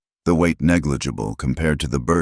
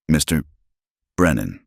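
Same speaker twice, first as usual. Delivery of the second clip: steady. Acted. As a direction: keep it composed and even. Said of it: "her voice steady despite everything".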